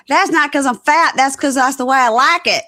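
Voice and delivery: loud, high mock protest; hammed-up defensive outburst; indignant husband imitation. Voicing husband defending himself.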